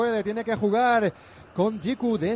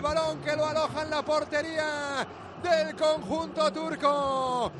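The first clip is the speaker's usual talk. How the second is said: slow, drawn-out shouted goal call; breakneck goal commentary; 3 semitones higher, 4 dB quieter, slower than usual. Real, not acted. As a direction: stretch every word of the goal. Replaying the goal, live radio.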